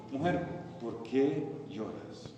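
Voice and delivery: quiet, measured compassion; gentle question. Acted. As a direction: ask it tenderly, leaving space between the words. Voices the Lord's gentle question.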